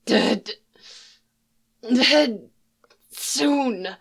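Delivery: high, eerie drawn-out moan; moaning wraith. Acted. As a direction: moan it like a ghost. Wraith moans its fate.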